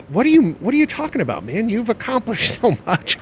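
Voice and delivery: mock-incredulous, brushing off the praise; disbelieving, laughing through it; incredulous disbelief. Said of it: "And I, and I was like".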